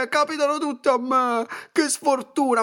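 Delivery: high, whiny mock complaint; self-pitying whine. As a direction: parody someone moaning about bad luck.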